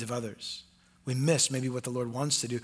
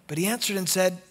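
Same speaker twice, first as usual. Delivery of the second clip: ordinary delivery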